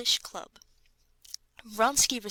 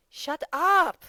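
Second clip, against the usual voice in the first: high, loud angry yell; furious shout; 9 semitones higher, 7 dB louder than usual. A narrator's reading. Petritsky furiously yells at Yashvin, high and loud. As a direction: bark him into silence. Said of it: "getting furious with Yashvin".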